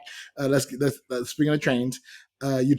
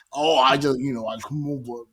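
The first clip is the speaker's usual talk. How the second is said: put-on Wayne's Australian accent. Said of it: "I don't, I can't do it".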